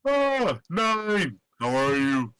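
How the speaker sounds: high, loud, cheerful hello; cheerful greeting. Acted. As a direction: greet an old friend with delight. Landris greets the player character.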